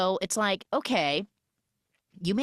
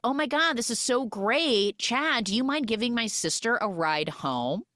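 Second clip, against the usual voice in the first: mock gushing; 5 semitones higher than usual. Acts out sister eagerly matchmaking.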